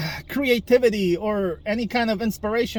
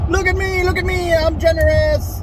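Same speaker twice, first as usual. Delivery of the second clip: high, smug braggart voice; a hammed-up self-praising show-off; mock show-off; 10 semitones higher, 4 dB louder than usual. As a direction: puff yourself up, sing-song boasting. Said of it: "beat myself on the chest and say".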